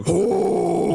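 high twangy held note; twang. Pretend. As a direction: sing it with a nasal twang. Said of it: "you do the twangy voice".

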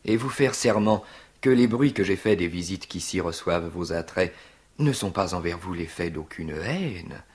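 measured verse with long suspended pauses; unctuous stage suitor; Tartuffe. Acted. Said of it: "je rêve de jouer Tartuffe".

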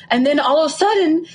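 high laughing cringe; laughing embarrassment. Real, not acted.

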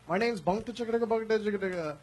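lightly mocked Indian accent; fake Indian accent. Comic introducing himself as a crew member in a mock Indian accent. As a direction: gibberish name in a put-on Indian accent. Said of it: "that fake accent part".

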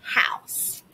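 soft unvoiced whisper of the example; whispered teaching example. Shown as a demonstration. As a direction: breathe the words out without voice. Teacher whispers model word.

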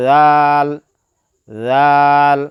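জাল as a soft dh, long and loud; soft articulation. Shown as a demonstration. Teacher models the letter, long জাল with a soft consonant. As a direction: stretch জাল gently off the tongue tip. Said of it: "নরমভাবে আদায়".

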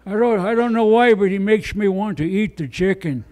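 a hint of a put-on Native American accent, mostly his own voice; Native American impression. Comic doing a light Native American impression for the crowd. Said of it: "my Native American impression".

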